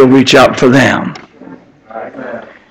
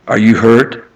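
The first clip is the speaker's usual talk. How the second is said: softer, gentle voiced question from God; tender God asking; 3 semitones lower, 4 dB quieter than usual. God asking the fallen sinner, softly tender. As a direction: ask it like a loving father bending down. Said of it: "God is asking".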